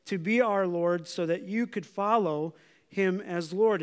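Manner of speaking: "follow" given extra weight in the phrase; stress on follow. Real, not acted. Pastor to congregation, pressing the word "follow". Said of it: "An emphasis on that word follow".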